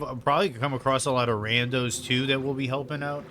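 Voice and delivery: talking through a mouthful of food; mouth full. Real, not acted. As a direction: speak while chewing lunch. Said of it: "Sorry for talking with my mouth full".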